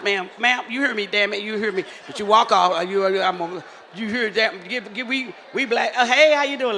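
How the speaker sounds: ordinary talk, nothing marked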